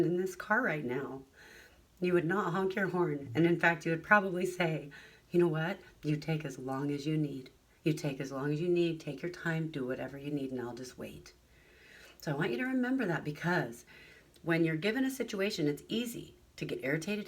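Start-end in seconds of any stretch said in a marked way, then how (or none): 5.3-11.3 reassuring kindness. Pretend. Imagined kind driver.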